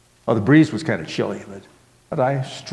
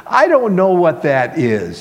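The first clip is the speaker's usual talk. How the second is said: put-on high, loud, drawn-out child's voice; raised little-girl voice; little girl answering; 7 semitones higher, 7 dB louder than usual. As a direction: answer slowly and brightly like a small child. Child answers, laughing mood.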